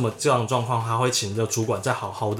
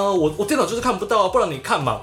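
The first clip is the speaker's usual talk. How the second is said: a bit flustered; 8 semitones higher than usual. Retold or imitated. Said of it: "就有点慌张".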